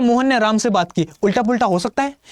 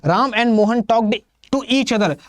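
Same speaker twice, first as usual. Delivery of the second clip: slow example read; much slower than usual. Shown as a demonstration. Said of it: "reads the example sentence".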